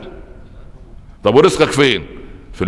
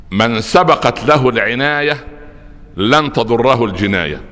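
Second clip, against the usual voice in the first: slow, deliberate, word by word; slow dictation; slower than usual. Shown as a demonstration. Preacher to congregation, slow memorisation dictation. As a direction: spell it out slowly so they memorise. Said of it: "احفظها".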